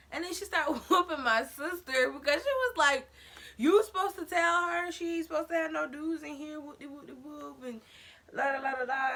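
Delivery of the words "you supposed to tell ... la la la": mock angry mom.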